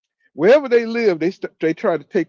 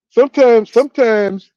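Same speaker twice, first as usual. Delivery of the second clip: louder, higher sometimes; emphatic; 5 semitones higher, 8 dB louder than usual. Real, not acted. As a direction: hit "sometimes" hard. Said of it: "emphatic repetition".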